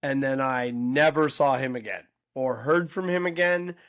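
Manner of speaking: re-enacted speech to a crowd, with big pauses; addressing an audience. Telling the backyard audience about a lost friend, addressing a crowd. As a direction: announce it slowly and deliberately, pausing between phrases. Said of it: "I addressed the audience".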